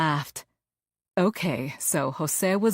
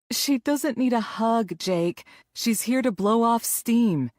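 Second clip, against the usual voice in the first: playful friend; 7 semitones higher, 3 dB louder than usual. Acted. Friend laughing at coach.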